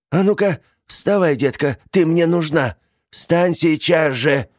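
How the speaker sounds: high, loud order; urgent command. A narrator's reading. Aunt ordering niece off the floor, urgent. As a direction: get her up at once.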